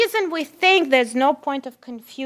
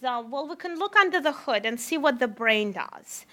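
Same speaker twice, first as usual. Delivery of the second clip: whispered aside; 5 dB quieter than usual. Real, not acted. Aside, look under the hood.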